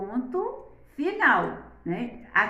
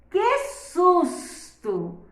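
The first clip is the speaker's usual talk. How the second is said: slow, higher "Que susto!" as if startled; startled exclamation; 5 semitones higher, much slower than usual. Shown as a demonstration. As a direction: act the fright in "Que susto!". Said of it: "olha a entonação".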